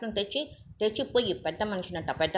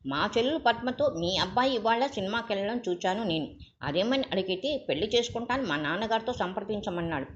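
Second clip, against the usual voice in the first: angry; 3 semitones higher than usual. Acted. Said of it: "Raghu కోపంగా లేచాడు".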